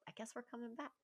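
soft, laughing aside; laughing resignation. Retold or imitated. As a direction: say it to him with a giving-in chuckle. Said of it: "I go".

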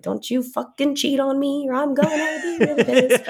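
laughing mock threat. Jokey paraphrase of lyrics.

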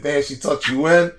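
put-on teasing an old friend, cracking up; mock teasing laughter. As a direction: rib him through the laughter. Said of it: "And we joked him. We said".

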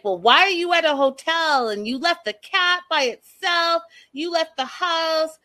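a mock indignant husband; accusing husband. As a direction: fire off the accusation in disbelief. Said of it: "And then he's like".

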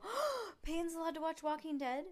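high-pitched mock shock after a gasp; hammed-up gasping disapproval; mock judgy. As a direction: imitate a scandalized, judgy listener. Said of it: "before you get all judgy and go".

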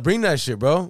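high, loud imitated demand; insistent demand. Brother demands his tapes by phone, imitated loud insistence. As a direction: act out an impatient caller pressing hard.

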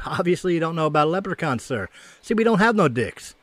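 a touch of smug condescension. Acted. Leprechaun explaining himself to an angry man, mildly smug. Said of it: "smugly smiling, and says".

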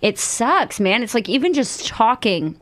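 talking with tight dental trays; a little slurred from sore teeth; slight lisp. Real, not acted. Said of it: "I feel like I'm slurring or I have a more of a lisp today".

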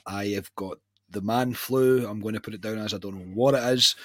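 sick, bunged-up voice; man flu. Real, not acted. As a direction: talk through a heavy cold. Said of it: "if I don't sound great".

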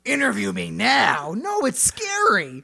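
high, loud comic outburst; mock panicked shouting. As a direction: shout it high in play-acted alarm. Mock interview with the monster.

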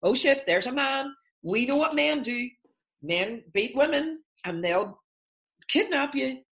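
high, hammed-up panic of the alarm system; mock alarm. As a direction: play the brain's alarm bells going off.

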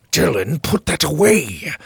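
sharp, loud command; stern order. A narrator's reading. Grebe orders Dylan to hide the dagger, loudly. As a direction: order him to put it away at once. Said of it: "Grebe ordered".

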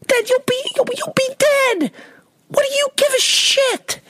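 shrill exasperation. Retold or imitated. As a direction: squeal it in comic disbelief. Son retorting to dad again.

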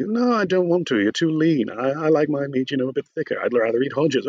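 lightly acted fussy refusal in a comedy sketch; arguing sketch character. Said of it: "they're arguing over who they're gonna eat".

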